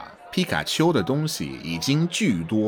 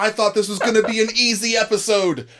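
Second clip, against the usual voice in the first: higher, incredulous exclamations; overwhelmed, it's harder than expected; real surprise; 12 semitones higher than usual. Real, not acted. Host reacting to a surprising tone rule, amazed.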